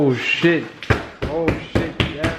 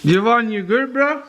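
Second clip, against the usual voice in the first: high concerned call; 11 semitones higher than usual. Real, not acted. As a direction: check on him in alarm. Friend checking on burning friend.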